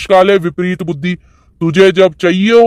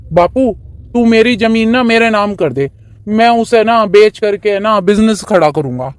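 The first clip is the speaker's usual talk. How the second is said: higher-voiced headstrong son pleading his case; stubborn young son; 3 semitones higher than usual. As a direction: play the eager, pushy son. Son voice demanding land. (ज़िद्दी बेटे की ऊँची आवाज़)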